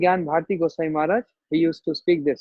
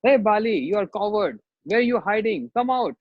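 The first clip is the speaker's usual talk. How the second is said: higher pitched taunt calling Bali a coward; 4 semitones higher than usual. Retold or imitated. Sugriv taunting Bali to come out of hiding. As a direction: goad him out, raised voice. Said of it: "keep on insisting him".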